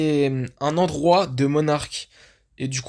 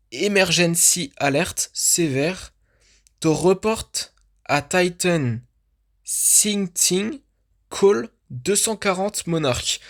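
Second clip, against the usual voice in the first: bad French-accented English; 3 semitones higher, slower than usual. Real, not acted. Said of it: "mon accent anglais est vraiment pourri".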